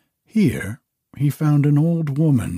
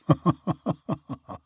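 mocking dragon laugh; dragon's mocking laugh; 6 semitones higher than usual. A narrator's reading. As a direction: laugh at the old woman. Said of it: "Loudly laughed the dragon".

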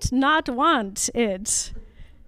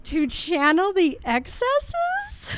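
laughing disbelief; 3 dB quieter, slower than usual. Real, not acted. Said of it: "Is that what I, does it mean?".

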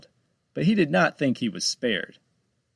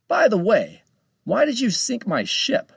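high questioning voice; 11 semitones higher, 5 dB louder than usual. Acted. Captain asks a pointed question.

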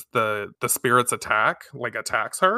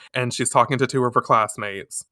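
usual speaking voice

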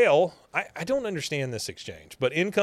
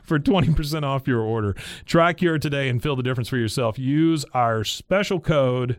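punchy, louder sponsor read; 6 dB louder than usual. Acted. Host pitching a discount code to listeners, ad read. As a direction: sell it like an upbeat ad.

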